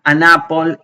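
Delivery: "An apple" linked as "ah-nah-pol"; open A. Shown as a demonstration. Teacher repeating "An apple" with open A. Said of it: "el sonido de la A abierta".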